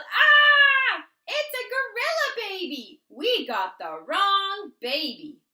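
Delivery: high, loud frightened shout; panicked yell. A narrator's reading. Parents shrieking when the gorilla baby grabs their ears. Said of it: "They yelled".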